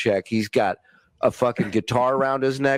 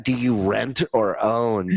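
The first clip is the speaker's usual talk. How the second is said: scornful repeat; slower than usual. Retold or imitated. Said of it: "What a fucking douchebag".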